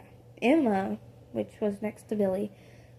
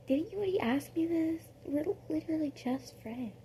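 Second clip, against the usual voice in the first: higher, exasperated reply; 6 semitones higher, 5 dB quieter than usual. Retold or imitated. Listener annoyed at Robin's question, exasperated. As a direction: sound fed up with the question.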